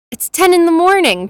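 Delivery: high-pitched, mildly indignant protest. A narrator's reading. Triplet objects to morning cognac, protesting. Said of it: "protested Alex".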